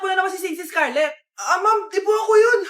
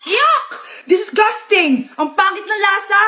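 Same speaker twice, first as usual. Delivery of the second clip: disgusted; 3 semitones higher, slower than usual. Acted. Girlfriend disgusted by the food.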